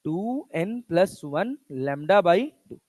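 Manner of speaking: spoken slowly for students to write down; slow teacher dictation pace. Shown as a demonstration. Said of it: "क्या लिखोगे बच्चा".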